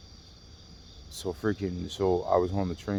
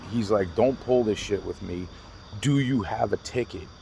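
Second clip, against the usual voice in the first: louder, accusing imitation of a conductor; confrontational; 4 dB louder than usual. Conductor challenging a passenger about his ticket, confrontational. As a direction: imitate someone challenging a passenger, pushing each phrase.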